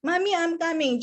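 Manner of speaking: put-on high, eager little-child voice; child's reply. Orion answers Mami's call, high eager child voice. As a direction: answer like an obedient small kid. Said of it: "Mereka harus di practice".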